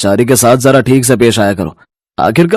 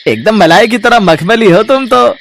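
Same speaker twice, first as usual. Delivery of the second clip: higher sleazy flattery; creepy come-on; leering milkman; 9 semitones higher than usual. Acted. Lecherous milkman. (छिछोरे दूध वाले की आवाज़)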